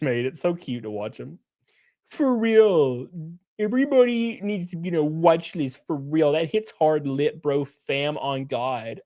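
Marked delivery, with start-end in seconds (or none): 2.1-9.0 mock Valley girl slang; Hassan Piker. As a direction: lightly imitate a Valley girl, dragging the last words. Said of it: "sounds like a Valley girl".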